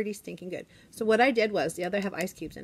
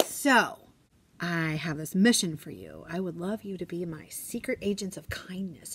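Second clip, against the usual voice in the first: playful secret mission. Retold or imitated. Teacher announces a secret mission.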